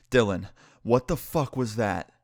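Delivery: acted winded, slow words after a heavy exhale; mock out-of-breath demand, spaced out between breaths; catching breath. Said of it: "catching my breath, and I'm like".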